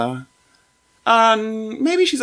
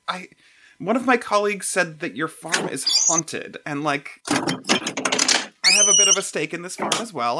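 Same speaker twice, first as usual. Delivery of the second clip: boisterous woman voice; 3 semitones higher than usual. Acted. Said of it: "talk to myself as, as characters".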